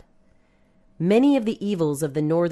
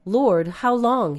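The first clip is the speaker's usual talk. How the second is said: higher, slow plea to God; narrated plea, drawn out; imploring inquiry; 5 semitones higher, 4 dB louder, slower than usual. A narrator's reading. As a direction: ask it slowly, lifting the pitch. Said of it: "he inquired".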